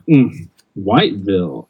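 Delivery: lightly snide "Mm", then stress on both halves of Whiteville; snide comment. Retold or imitated. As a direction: imitate a professor's dig, leaning on WHITE and VILLE. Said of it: "this, this snide comment".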